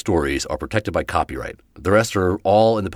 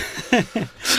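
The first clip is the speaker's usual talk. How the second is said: high giggle. Real, not acted. Laughing at ghost voice.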